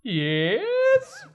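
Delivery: high, squeaky puppet voice; Pinocchio. Shown as a demonstration. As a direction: stretch it out in a high little puppet voice. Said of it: "Could you do Pinocchio's voice?".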